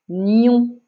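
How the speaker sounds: deliberate, held syllable; drawn-out syllable for a pupil to write; dictation. Shown as a demonstration. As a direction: dictate one syllable clearly. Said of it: "Je répète".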